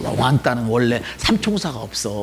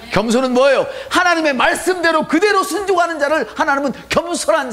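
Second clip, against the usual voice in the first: louder, higher preacher's shout; preaching shout; 3 dB louder than usual. Acted. Pastor shouting the meaning of humility at church. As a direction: drive the point home loudly.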